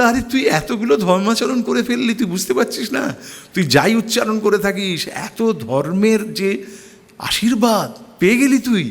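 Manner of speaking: lightly voiced mother, high and fond; a hint of a proud mother marveling; mother telling her actor son he's blessed, mild fond voice; mother's praise. Mother praising son's many roles.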